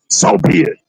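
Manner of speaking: "So be it" whispered, barely voiced. Shown as a demonstration. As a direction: breathe "So be it" out with no voice. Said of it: "Did you hear any humbleness".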